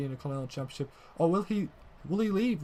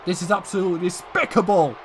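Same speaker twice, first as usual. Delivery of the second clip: furious, much higher and louder ringside yelling; outraged shouting; 7 semitones higher, 11 dB louder than usual. Acted. Commentator yelling for security after Reigns' attack, furious shout. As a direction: scream at security like the attack just happened in front of you.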